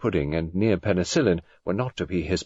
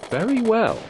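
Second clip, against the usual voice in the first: faint amusement; 4 dB louder than usual. A narrator's reading. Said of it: "A faint amusement tinged the voice".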